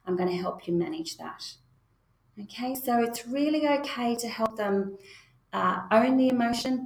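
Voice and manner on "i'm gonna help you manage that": calm but firm. Shown as a demonstration. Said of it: "You're letting them know".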